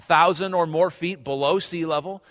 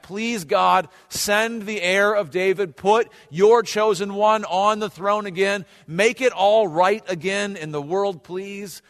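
slow, higher imitation of a plea; drawn-out retold prayer of longing; pleading prayer; 4 semitones higher, slower than usual. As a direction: plead with God, stretching the words. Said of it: "waiting for God to send".

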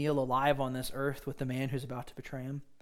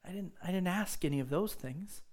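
softer, calm and kind; gentle reassurance; 4 semitones higher, 5 dB quieter than usual. Acted. Jesus reassuring Peter he never asked that, soft and calm. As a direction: wave the worries away softly.

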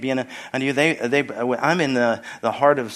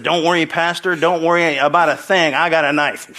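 imitated Arkansas accent. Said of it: "he was from Arkansas".

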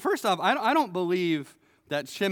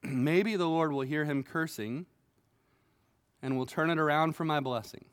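softer, lower, calm acceptance; restrained reply; 3 semitones lower, 4 dB quieter than usual. Retold or imitated. David answers his soldier, calm and restrained. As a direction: speak it quietly, humbly accepting. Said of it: "showed a lot of restraint and said".

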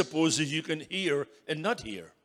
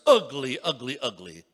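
mock parrot squawk; 7 dB louder than usual. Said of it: "the parrot shouts".

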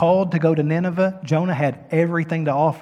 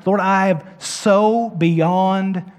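desperate cry; 5 semitones higher, 6 dB louder, much slower than usual. Pretend. Pleading prayer cry out.

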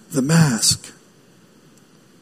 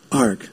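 pirate growl; 8 semitones lower, 6 dB quieter than usual. Pretend. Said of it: "talks like a pirate".

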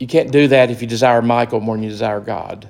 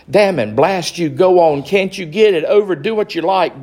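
bellowed; 5 semitones higher than usual. Acted. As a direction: roar it in angry surrender. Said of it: "bellowed the ghost".

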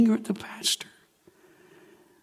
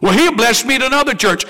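mock churchgoer; 4 semitones higher, 4 dB louder, faster than usual. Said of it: "You say".

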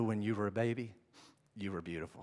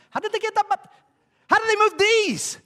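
very high, loud amazement; loud, high-pitched disbelief; incredulous outburst; 12 dB louder, faster than usual. Real, not acted. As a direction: burst out baffled at the top of the voice. Marvels at building of pyramids.

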